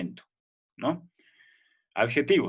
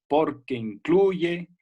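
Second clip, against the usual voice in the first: "porque incluye" said very slowly, a bit higher, the vowels run together; slow joined demo; 5 semitones higher, 4 dB louder, much slower than usual. Shown as a demonstration. Teacher slowly shows the class how the vowels merge. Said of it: "una vocal que se ha juntado con esta".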